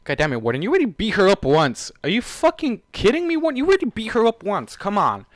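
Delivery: loud, high-pitched, incredulous scolding; exasperated outburst. Real, not acted. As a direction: yell at the character in real disbelief. Reader exasperated at the character's choice.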